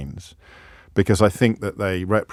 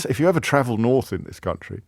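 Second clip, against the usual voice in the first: quicker, lightly mocking repeat of own phrase; mocking self-quote. Presenter quotes his own London-centric phrase back, mocking self-quote. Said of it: "How London".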